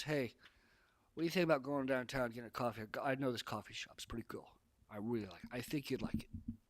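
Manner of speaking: relaxed confident invite, easy and steady; commanding voice. Shown as a demonstration. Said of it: "commanding voice".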